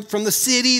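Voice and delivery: "city" picked out with pointed weight; deliberate emphasis. Real, not acted. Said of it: "I'm saying that very deliberately".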